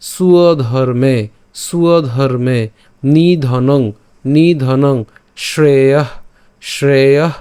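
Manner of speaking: slow "suwa-dharme" for সুধর্মে, each word twice; deliberate teacher's repetition, শ্রেয়ঃ ending in a breathed h; pronunciation drill. Shown as a demonstration. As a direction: model নিধনং, শ্রেয়ঃ, ভয়াবহ singly with pauses between. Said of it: "আমরা এভাবে উচ্চারণ করব".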